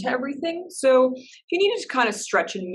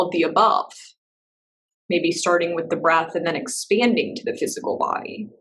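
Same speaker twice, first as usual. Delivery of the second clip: measured meditation-teacher voice with long pauses; guided meditation; 3 semitones lower than usual. Real, not acted. Teacher settling a class into breath and body, guided meditation. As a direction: guide them gently inward, leaving space between phrases.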